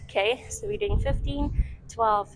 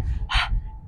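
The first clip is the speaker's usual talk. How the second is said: demo exhale; 6 dB louder than usual. Shown as a demonstration. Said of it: "So you're kinda doing like".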